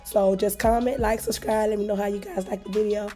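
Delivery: hoarse, losing voice. Real, not acted. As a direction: speak with a worn-out hoarse voice. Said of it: "Sorry, my voice is gone".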